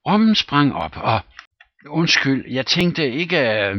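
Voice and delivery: excited storytelling. Acted. Captain's tale grows excited.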